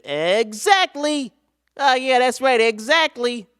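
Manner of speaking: high, slow cartoon cat voice; Meowth voice. Streamer reading a comment as Meowth, high cartoon cat. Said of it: "you sound like Meowth".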